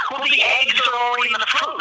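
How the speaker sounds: high, lightly mocking voice of the arguer; mimicking the arguer. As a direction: parrot the know-it-all mockingly. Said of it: "They said".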